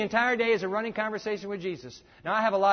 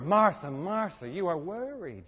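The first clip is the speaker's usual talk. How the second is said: Jesus gently chiding; slower than usual. Acted. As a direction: lean in and name her worry kindly. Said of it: "Jesus said".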